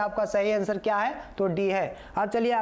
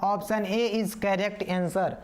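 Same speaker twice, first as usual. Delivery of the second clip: very slow, each word spaced out; drawn-out teacher announcement; slow, deliberate answer; much slower than usual. Shown as a demonstration. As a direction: spell out the right answer slowly for the class.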